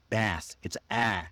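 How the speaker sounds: slow "Bath" with a drawn-out front "a" as in "cat"; American short A. Shown as a demonstration. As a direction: drop the jaw and hold the vowel of "Bath". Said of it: "you drop your jaw".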